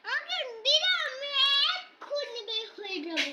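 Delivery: loud threat. Real, not acted. Child threatening father she will leave, loud and defiant. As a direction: make a bold threat to leave.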